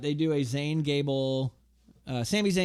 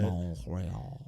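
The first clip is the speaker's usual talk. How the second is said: mock French accent; 8 semitones lower, 8 dB quieter than usual. Repeats the French-style city name.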